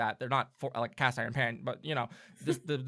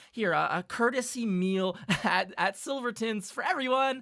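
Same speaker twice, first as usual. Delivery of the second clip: nervous elf dealer; 5 semitones higher than usual. Acted. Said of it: "and he'll rip out and goes".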